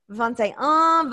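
slow, halting American French; foreign accent in French. Retold or imitated. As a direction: count slowly in bad French. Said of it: "may I try to ... bad French".

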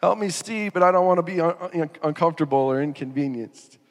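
mock reluctant prayer. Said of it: "We say".

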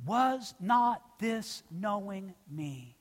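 preacher quietly stressing a key phrase; slow and quiet. Acted. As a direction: let the phrase sink in slowly. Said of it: "Please note that phrase".

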